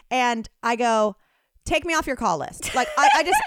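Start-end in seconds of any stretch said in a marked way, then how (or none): 1.6-2.7 higher, retold blunt request; mildly blunt, re-enacted refusal; blunt demand. Customer cutting off a sales caller, mildly blunt. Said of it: "I bluntly".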